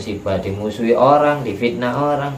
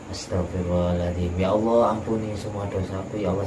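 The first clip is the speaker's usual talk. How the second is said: tearful prayer; 3 semitones lower, 7 dB quieter than usual. Retold or imitated. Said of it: "Sambil nangis, orangnya nangis".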